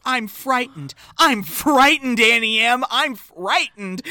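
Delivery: slow, high mock-tearful plea; hammed-up scared girl calling for help; imitated frightened crying. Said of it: "'Cause she's crying. She's going".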